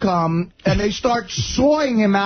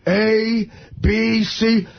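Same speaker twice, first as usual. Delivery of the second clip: put-on drunk reciting; 6 semitones higher, much slower than usual. Drunk man reciting alphabet in story.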